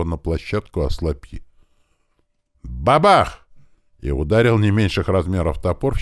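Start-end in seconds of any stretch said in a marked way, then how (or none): 2.6-3.5 high, punchy spoken boom; imitated crash. A narrator's reading. Narrator imitating an axe hitting a shield, booming. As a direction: voice the blow of an axe.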